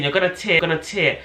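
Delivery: hammering out the midwife's warning; retold mock scream. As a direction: imitate an alarmed, repeated warning. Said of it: "She kept just screaming".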